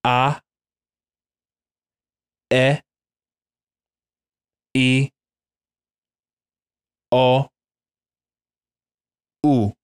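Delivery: A, E, I, O, U as pure Spanish vowels, ah eh ee oh oo, each held apart. Shown as a demonstration. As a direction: model each vowel slowly for repeating. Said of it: "Let's try it one more time".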